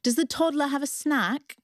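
put-on lightly done British accent. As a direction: ask it like a kind British mentor. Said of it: "she had a British accent".

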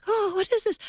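high-pitched startled question, acted out; frightened. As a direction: act out creeping nervously through the dark. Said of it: "flashlight in my hand is shaking".

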